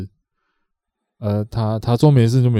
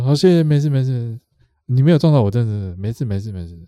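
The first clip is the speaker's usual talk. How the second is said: 稍微拉高嗓门，急着说没事; 急着让对方放心; 连声说没事. Retold or imitated. 模仿对方连声说没事. (轻度模仿对方急着说没事)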